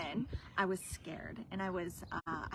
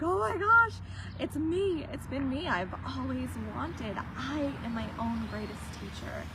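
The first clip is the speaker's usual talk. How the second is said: much higher, much louder, bursting with relief; joyful crying exclamation; 6 semitones higher, 5 dB louder than usual. Retold or imitated. Retelling to viewers her breakthrough moment, high overjoyed cry. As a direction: cry it out as the truth dawns on you. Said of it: "I was crying and laughing".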